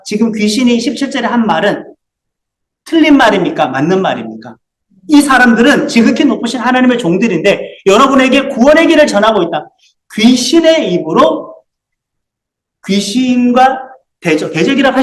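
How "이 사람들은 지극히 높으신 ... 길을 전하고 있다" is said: mildly raised quoted outcry; re-read the cry with a touch more force; lightly acted proclamation. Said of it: "하고 외쳤다".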